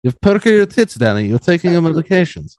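imagined doctor. Retold or imitated. Doctor congratulating patient on medication, mock-clinical. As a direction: play the doctor pronouncing findings, pitch swooping up. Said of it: "if you just came in".

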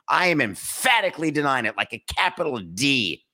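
EMPHATICALLY pitched high and stretched out; "emphatically" hit hard, then slowing on "capital D"; mock emphatic denial. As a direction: act out denying it, punching "emphatically".

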